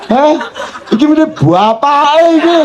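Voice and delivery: put-on a touch of child scorn; indignant child. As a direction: scoff as the child. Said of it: "Anakku iki ngeluh".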